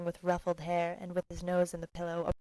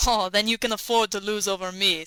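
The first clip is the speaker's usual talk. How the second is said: laughing reply; 6 dB louder than usual. A narrator's reading.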